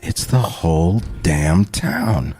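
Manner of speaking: slow, drawn-out imitation of an odd line; weird movie line delivery. Quoting a favorite weird movie line to co-host, slow and odd. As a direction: stretch the words out, oddly weighted. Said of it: "says it in this really weird way".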